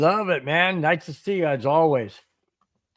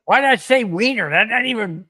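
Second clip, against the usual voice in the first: surprised at himself; 5 semitones higher, 4 dB louder than usual. Real, not acted. Cohost laughs at his own slip.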